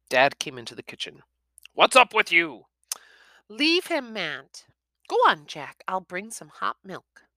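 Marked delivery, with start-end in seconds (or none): 1.7-2.7 a hint of a gruff father; father quizzes son, lightly voiced; gruff dad. A narrator's reading. Dad asks. 3.5-7.3 high gentle mother; mother tells husband to leave son; protective mum. A narrator's reading.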